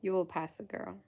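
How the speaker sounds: put-on playful southern US accent; put-on southern reassurance. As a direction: lay on a light southern accent. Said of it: "feel the need to do a southern accent".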